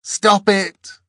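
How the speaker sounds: high, loud desperate plea; pleading. A narrator's reading. Angel begging Dor as it is pulled away, pleading. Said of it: "it pleaded".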